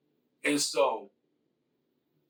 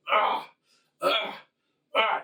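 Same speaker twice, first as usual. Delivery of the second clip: higher, short imitated effort grunts with each punch; mock grunts; 6 semitones higher, 3 dB louder, slower than usual. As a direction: grunt out every swing like lifting a heavy weight. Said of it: "he's grunting and screaming".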